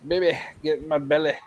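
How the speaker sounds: fast, put-on Fat Bastard growl. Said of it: "fat bastard ate baby".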